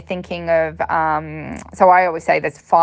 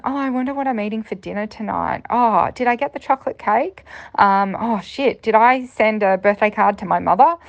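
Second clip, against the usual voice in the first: higher, lightly voiced daydreaming thoughts; distracted inner voice; 4 semitones higher than usual. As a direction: drift off mid-test, lightly acted. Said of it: "I have the voice of distraction".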